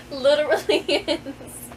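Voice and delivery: words broken by laughter; can't get through it for giggling; laughing. Real, not acted. Author cracking up at her own ending.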